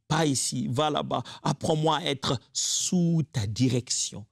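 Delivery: settling into a gentler petition. Acted. Pastor closes the prayer, calmer and gentler. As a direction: bring the prayer down, gentle and steady.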